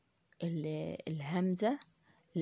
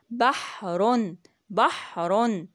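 slow demo reading; 3 semitones higher, 6 dB louder, much slower than usual. Shown as a demonstration. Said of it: "ده كان إيه؟".

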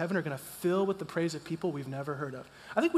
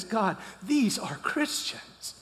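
tearful awe; 2 semitones higher, much slower than usual. Retold or imitated. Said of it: "crocodile-sized tears".

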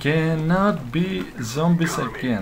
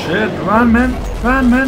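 shouting orders over battle; 8 semitones higher, 6 dB louder than usual. Real, not acted. Urging teammate to flee.

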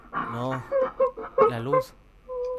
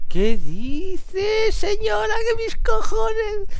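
high, loud, drawn-out scream of alarm; real startled high-pitched yelling; panicked shout; 8 dB louder, much slower than usual. Real, not acted. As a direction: yell in fright, stretching the words. Startled by approaching woman in horror game.

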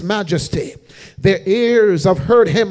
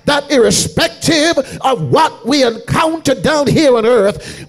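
preaching at full force; 3 semitones higher than usual. Acted. Preacher to congregation quoting Jesus, full-force chanted whoop.

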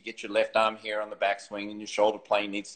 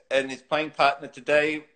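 deadpan announcer; 2 semitones higher than usual. Retold or imitated. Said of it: "And then he goes".

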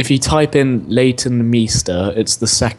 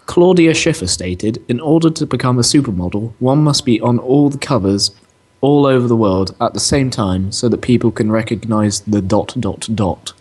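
reading aloud. Real, not acted. Reads out a definition.

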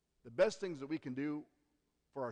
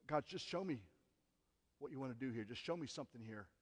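quiet prayer; 7 dB quieter than usual. Retold or imitated.

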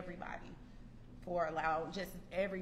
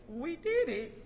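higher, louder, laughing shout; triumphant; 8 semitones higher, 5 dB louder, slower than usual. Real, not acted. Graduate ending her speech with a joyful laughing shout. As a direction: cry it out in joy and relief.

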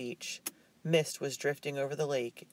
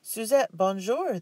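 bright greeting, higher and louder; cheerful greeting; 8 semitones higher, 6 dB louder, slower than usual. A narrator's reading. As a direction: greet her like a glad friend. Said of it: "the clerk said cheerfully".

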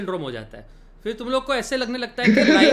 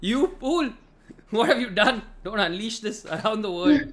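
a touch of raised, melodramatic alarm; mock horror. Player warning the inventor of a terrible idea, mock horror. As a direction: scold as if doom were being unleashed, playfully.

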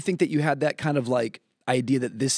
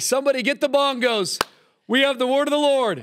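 hyped-up preacher; 13 semitones higher, 5 dB louder than usual. Retold or imitated. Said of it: "You're like".

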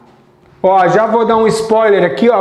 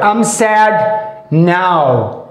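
acting sad; 3 semitones lower, much slower than usual. Shown as a demonstration. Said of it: "Eu vou ficar um pouco triste agora".

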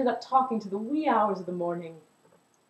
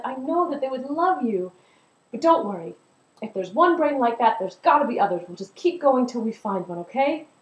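reassuring; 4 semitones higher, 4 dB louder than usual. Acted. Tune reassures the Melody.

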